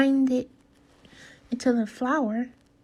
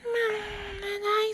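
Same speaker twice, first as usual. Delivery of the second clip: sniffed; 10 semitones higher, 5 dB quieter than usual. A narrator's reading. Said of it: "sniffed the cat".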